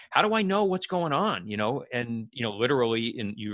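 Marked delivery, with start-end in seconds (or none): 0.1-1.5 puzzled son. Retold or imitated. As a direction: sound baffled that the graphics are missing. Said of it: "he's like".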